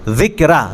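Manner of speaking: "ذکرہ" as "dhikraa", th as in "this"; tongue tip out to start "ذکرہ"; dhāl demonstration. Shown as a demonstration. Teacher points out the letter to students, "ذکرہ" with a careful dhāl. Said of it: "یہاں پہ بھی ذال ہے".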